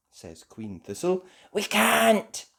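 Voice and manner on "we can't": high cry of protest. A narrator's reading. Holly answering the Queen, high cry. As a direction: exclaim it helplessly high. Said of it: "cries Holly".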